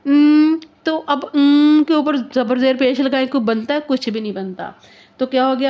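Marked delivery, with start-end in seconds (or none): 0.1-0.6 emphatic wrong na. Shown as a demonstration. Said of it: "अगर हम कहेंगे ना".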